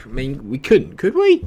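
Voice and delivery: daring to hope, pitch soaring; real hopeful excitement; hopeful disbelief. Real, not acted. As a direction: voice jumping high on the question. Hoping for a comeback.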